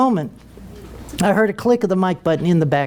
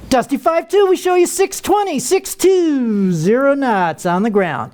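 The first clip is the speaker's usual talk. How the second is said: high, sing-song controller readout with a hint of glee; gleeful controller; 6 semitones higher, slower than usual. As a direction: savor putting him in his place. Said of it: "a little glee in the controller's voice".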